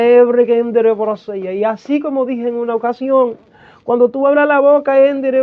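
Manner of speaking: fervent prophetic declaration with bursts of tongues; prophetic preaching. Real, not acted. Preacher delivering God's word to a servant, prophetic fervor.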